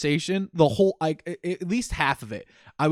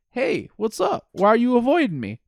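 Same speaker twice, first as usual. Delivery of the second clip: higher-pitched mock confronting voice; game character confronting; 8 semitones higher than usual. Acting out Ralphie confronting his avoidant friend, high mock challenge. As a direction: put on a high, pressing friend voice.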